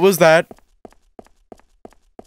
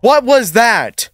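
slow, higher, alarmed questions; startled; 4 semitones higher, much slower than usual. Real, not acted. Player startled by something in the dark, slow and alarmed. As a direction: drag it out, spooked.

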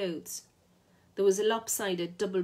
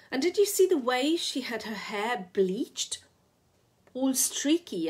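higher, louder scandalised gossip; scornful gossip; 5 semitones higher, 5 dB louder than usual. A narrator's reading. Lou to Raymond about her sister, scandalised gossip. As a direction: sound appalled at the bleached hair.

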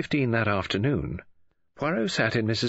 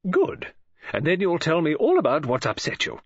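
bright, higher-pitched woman's voice; Mrs Oliver; 7 semitones higher, 3 dB louder than usual. A narrator's reading. Novelist greeting Poirot on the phone, bright high voice. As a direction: play the chatty lady novelist, lifted and eager.

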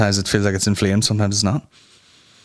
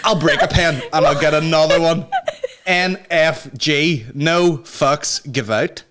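mock flippant; 3 semitones higher, slower than usual. Continuing mock confession song.

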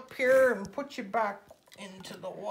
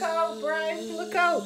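calling out; 6 semitones higher, 4 dB louder, slower than usual. Pretend. Warning a toy from wasp.

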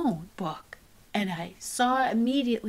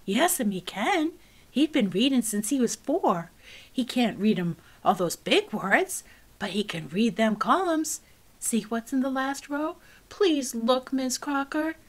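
insistent pleading; 4 semitones higher, 5 dB louder than usual. Acted. Child insisting to teacher.

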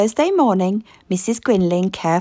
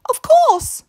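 high, bright cry of realisation; light up with the idea; wife hitting on a clever idea; excited exclamation; 5 dB louder than usual. Acted. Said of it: "exclaimed Missus Grinling".

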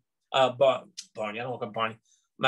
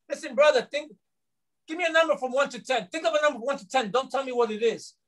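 raised, higher call across a room; 6 semitones higher than usual. Retold or imitated. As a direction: call out to the prisoner, pointing. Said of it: "I shouted out to him".

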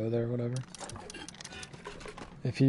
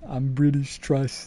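mock-Australian echo; mimicked Australian accent; slower than usual. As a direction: parrot his claim back in an Australian accent. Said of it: "I know an Australian accent".

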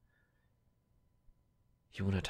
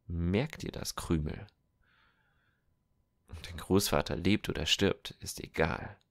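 louder, hard threat; threatening soldier; 2 semitones lower, 4 dB louder than usual. Acted. Feder threatens the boy, louder and hard. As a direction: make him afraid, then tempt him.

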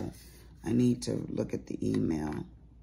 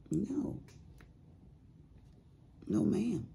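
high, emphatic sassy "no, ma'am"; 11 semitones higher, 5 dB quieter, slower than usual. Real, not acted. To the viewers, a sassy high-pitched refusal. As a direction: shut it down high and sharp.

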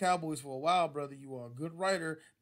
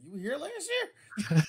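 higher, slow, laughing disbelief; mock surprise; 11 semitones higher, 7 dB louder, slower than usual. Teammate learns Henne was there, laughing and slow. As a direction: gasp it out through laughter.

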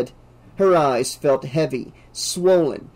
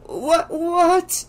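high, incredulous repeat; stunned, pitch climbing; shocked what, what; disbelieving. A narrator's reading. Disbelief at mother.

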